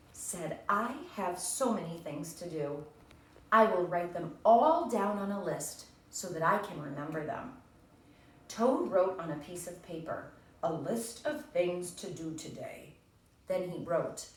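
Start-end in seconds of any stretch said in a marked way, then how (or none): 0.7-7.6 lively read-aloud of a character's line; storybook reading. Acted. Teacher reading Toad's line to her class, storybook voice. 10.6-13.0 slow, careful read of a list; reading Toad's list. Acted. Teacher reading Toad's list aloud, slow and careful.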